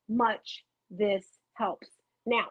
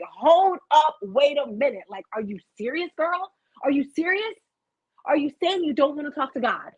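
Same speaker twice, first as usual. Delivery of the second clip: retold indignant challenge; 5 semitones higher than usual. Retelling her shock at someone refusing prayer, indignant. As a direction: challenge the person with pitched-up disbelief.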